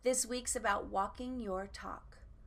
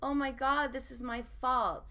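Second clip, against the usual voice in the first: higher, louder mock dismay; hammed-up fretting in a raised voice; self-blaming panic; 5 semitones higher, 5 dB louder than usual. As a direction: act out panicked self-blame. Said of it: "So I thought, "I should blame myself".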